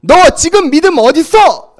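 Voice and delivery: loud, high sharp rebuke; Jesus rebuking his followers in plain words; scolding. Acted. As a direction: tell them off hard. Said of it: "혼을 내시는 거예요".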